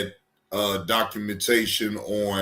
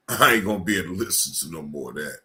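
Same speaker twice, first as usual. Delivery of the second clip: fast fed-up rush; 5 semitones lower, much faster than usual. Real, not acted. Quits listening to the clip.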